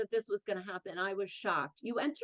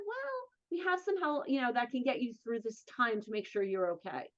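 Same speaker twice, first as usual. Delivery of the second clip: gentle reassurance; 2 semitones higher than usual. Retold or imitated. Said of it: "she very, very gently".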